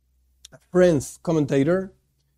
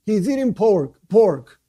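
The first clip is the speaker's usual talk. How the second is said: higher-pitched questioning bystanders; puzzled onlookers; 4 semitones higher than usual. Acted. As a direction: act out onlookers puzzling over what they see. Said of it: "People look at him and say".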